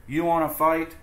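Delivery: high, loud, picking a fight; grouchy ladybug. Acted. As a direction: taunt them to fight. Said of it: "said the grouchy ladybug".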